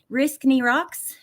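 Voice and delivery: "Risk Knee Rocks" slowly, each part said on its own; sounding out a name. Shown as a demonstration. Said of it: "if I try to pronounce".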